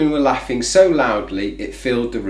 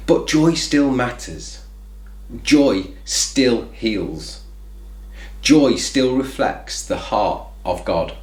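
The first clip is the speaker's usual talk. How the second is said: slow sincere refrain; 2 semitones lower, slower than usual. Acted. Closing refrain with music.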